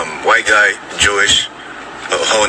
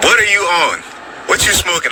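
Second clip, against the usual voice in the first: incredulous; 6 semitones higher, faster than usual. Retold or imitated. Disbelief at doctor's claim.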